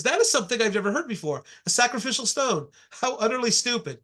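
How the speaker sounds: quick, crisp imitation of a British museum director; lightly mocking British accent. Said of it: "You hear that in a British accent".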